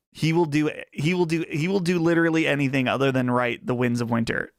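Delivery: Trump impression. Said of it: "That was a pretty good Trump".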